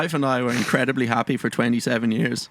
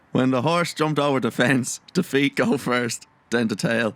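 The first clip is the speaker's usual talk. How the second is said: slow, lightly put-on Dublin accent, stretching the punchline; a hint of Dublin accent, slowed for the pun; slower than usual. Telling a joke to listeners in a slow, mild Dublin accent. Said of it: "forgive my Dublin accent".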